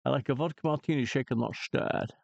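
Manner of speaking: Scottish Bond accent, quick; lightly voiced Sean Connery; mild Scottish James Bond voice; Sean Connery impression. Shown as a demonstration. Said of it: "that thing that I just said about the martini".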